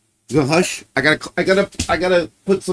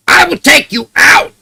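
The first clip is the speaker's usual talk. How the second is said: high, louder singsong for the dog; repeating the promise to the dog, high and louder; pet talk; 12 semitones higher, 8 dB louder than usual. Real, not acted. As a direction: sing it up to the dog.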